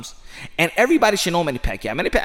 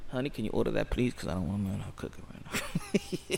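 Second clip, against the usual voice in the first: quiet aside; 8 semitones lower, 14 dB quieter than usual. Real, not acted. Asking wife off-mic for food.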